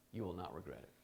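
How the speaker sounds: soft, sincere restatement. Shown as a demonstration. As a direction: say it again gently, letting it sink in.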